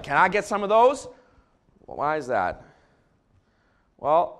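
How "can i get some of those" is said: lightly voiced, louder eager ask; eager Leah. Pastor voicing Leah asking for the mandrakes, eager and lightly voiced. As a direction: ask like you want them badly. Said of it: "Leah's like".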